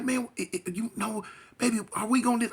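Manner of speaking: high, rushed and panicky; frantic girlfriend. Retold or imitated. Girlfriend panicking in the car, high frantic voice. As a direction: imitate her scared pleading. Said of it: "she frantic".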